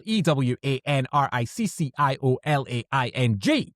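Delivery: quick, practised letter-by-letter spelling; rapid spelling. Real, not acted. Host spelling out a name for listeners, rattled off. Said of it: "That might be your fastest yet".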